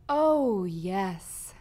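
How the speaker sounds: drawn-out smug "oh", dropping away; smirking. A narrator's reading. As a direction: say it with a lazy smirk. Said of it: "said Riprid with a smirk".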